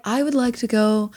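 lightly imitating a poetic speaker; mock poetic. Co-host echoes Tim's leprechaun plan back to him, mock poetic. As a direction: recite it as a lofty, lyrical wish. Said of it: "Way, way more poetic and beautiful".

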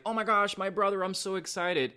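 high-pitched imitation of thrilled kids; excited little brothers. Little brothers rushing up to their brother, excited imitation. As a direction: squeal it lightly like an overjoyed little brother. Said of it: "these two little crying brothers rush up".

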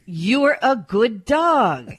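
slow doting praise, as if to a pet; dog-directed speech. Shown as a demonstration. Reporter showing how to praise a dog, dog-directed speech. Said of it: "talk about doggy-related things, like".

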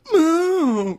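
high, drawn-out moo; imitated ringtone. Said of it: "you hear another ringtone of".

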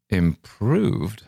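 surprised echo. Acted. Correspondent questions the corporal's verdict, surprised.

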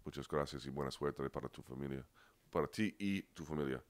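halting Spanish read in an American accent; terrible Spanish accent. Real, not acted. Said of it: "You're gonna hear my terrible accent".

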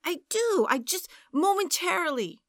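high, flustered sighing excuse. A narrator's reading. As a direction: sigh out a lame excuse. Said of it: "he sighed".

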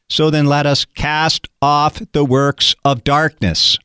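a measured Bible reading, rising in the middle; scripture reading. Acted. Pastor reading Romans to radio listeners, measured and earnest.

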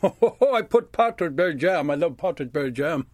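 laughing through the words. Real, not acted. Storyteller recalling the partridge berry jam, laughing happily. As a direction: giggle with delight at the memory.

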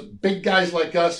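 slow, lightly voiced Arnold; a touch of Arnold, said slowly; imitating Arnold. Arnold advising Tower in his dressing room, slow mock Arnold. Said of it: "he goes".

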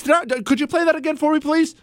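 high, fast sarcastic request; mock incredulous. Real, not acted. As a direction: pretend you misheard. Host asks to replay clip.

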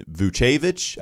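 Vucevic as voo-CHAY-vitch; variant pronunciation. Shown as a demonstration. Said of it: "I've heard it called".

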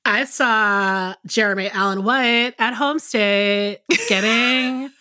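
slow, stretched-out Californian vowels; exaggerated, droning Californian accent. Shown as a demonstration. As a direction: drag every phrase out in lazy Californian. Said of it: "do a Californian accent".

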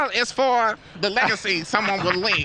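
a light take on Katt Williams; lightly voiced comedian cadence; Cat Williams impression. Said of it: "trying to do my Cat Williams".

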